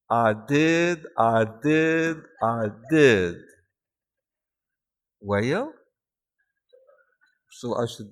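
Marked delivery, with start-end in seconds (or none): 0.1-3.4 imitated Southern speech, hit hard each time; Southern accent. Shown as a demonstration. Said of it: "speaking that way". 5.2-5.7 drawled Southern word with rising end; imitated Southern drawl, sliding upward; Southern accent. Shown as a demonstration. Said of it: "and now the Southern accent".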